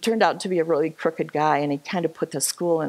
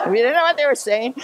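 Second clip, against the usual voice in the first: laughing; 6 semitones higher, faster than usual. Real, not acted. Laughing about the speeches.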